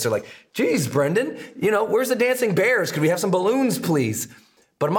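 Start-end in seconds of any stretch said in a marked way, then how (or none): 0.5-4.3 mock-whiny, higher plea for fun and fluff; lightly voiced moaning listener begging for balloons; whiny complaining audience. Coach imitating listeners who want fluff, mock-whiny. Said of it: "people hate when I talk like this".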